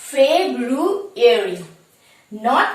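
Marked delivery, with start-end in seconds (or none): 0.1-1.6 ফেব্রুয়ারি slowly with the ru syllable kept; correct pronunciation. Shown as a demonstration. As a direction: repeat the right ফেব্রুয়ারি for learners. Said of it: "the correct pronunciation is".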